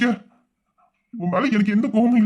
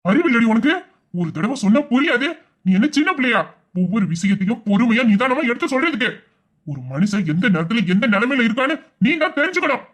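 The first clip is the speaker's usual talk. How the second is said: angry scolding. Acted. Husband scolds wife in anger.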